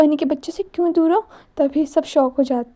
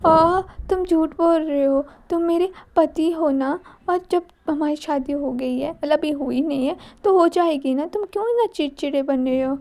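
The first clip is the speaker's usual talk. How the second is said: put-on whiny childlike girl; 2 semitones higher than usual. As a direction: whine it like a hurt little girl. The speaker whining childishly.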